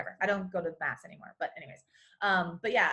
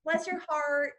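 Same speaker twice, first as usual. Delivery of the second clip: higher-pitched Texan false sweetness; backhanded Southern sympathy; sweetly mean Southern; 4 semitones higher than usual. Shown as a demonstration. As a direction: put on Southern charm to cover an insult. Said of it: "is you saying something mean about someone".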